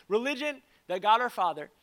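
a preacher reading the Bible verse; scripture reading. Acted. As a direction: read it like scripture from the pulpit. Pastor reads scripture aloud.

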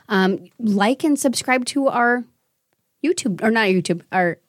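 a little tipsy, fumbling words; slightly tipsy, losing the thread. Real, not acted. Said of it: "I'm a little tipsy right now".

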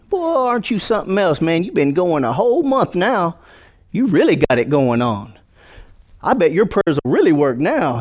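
high, sly mock praise; mock flattering devil. Preacher voicing the devil's sly praise, high and teasing. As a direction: puff them up like a sly tempter.

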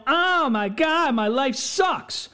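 drawn-out mock self-pity whine. Mocking guys who complain on Facebook, in a whine.

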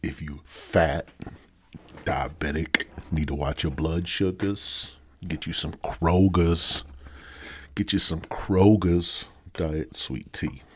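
slow, deliberate fake commercial pitch; mock ad read. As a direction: sell the tea like a cheesy spokesman. Mock commercial for Kroger's tea.

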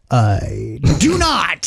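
deadpan. Retold or imitated. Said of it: "I was like".

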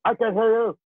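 high, loud taunting call; drill sergeant. Retold or imitated. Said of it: "the drill instructor goes".

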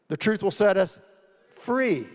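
preacher's fervent climax; rising fervor. Acted. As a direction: build to free and lift it.

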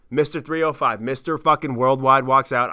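loud, high, hyped-up storytelling; excited. Real, not acted. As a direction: shout it like the crowd just went wild. Hyping a rapper's entrance at the concert.

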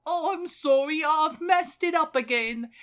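high, squeaky apologetic sidekick; pipsqueak voice. Retold or imitated. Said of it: "the wee little pipsqueak would always go".

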